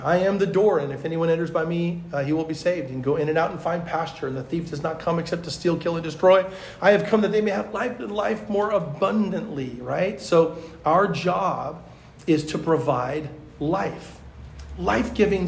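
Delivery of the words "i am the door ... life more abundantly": scripture reading. Acted. Preacher reading John ten to youth leaders, proclaiming. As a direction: proclaim the verse to the room.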